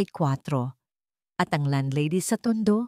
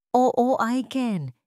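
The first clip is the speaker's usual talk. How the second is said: full of love; 6 semitones higher, much slower than usual. A narrator's reading. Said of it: "puno ng pagmamahal".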